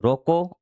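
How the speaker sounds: रोको on a high rising tone, left hanging; comma after रोको. Shown as a demonstration. Teacher putting in the comma, pause after रोको. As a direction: lift रोको and stop as at a comma. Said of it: "आपने comma लगा दिया".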